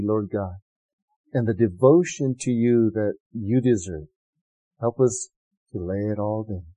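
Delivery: earnest prayer, softening toward the end; closing prayer. Acted. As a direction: pray over the congregation.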